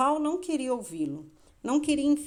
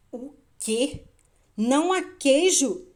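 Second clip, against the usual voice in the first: incredulous shout, louder and higher on the second question; Hen; 4 semitones higher, 7 dB louder than usual. A narrator's reading. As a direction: cry out in disbelief. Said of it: "gritou Hen". (grito incrédulo)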